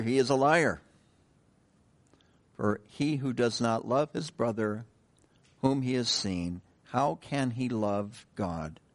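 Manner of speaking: measured, solemn Bible reading; scripture reading. Acted. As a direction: pulpit scripture reading, slowing toward the close. Reads scripture aloud to congregation.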